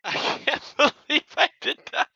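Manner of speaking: high, laughing disbelief; annoyed. Real, not acted. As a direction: laugh through the frustration. That's so annoying.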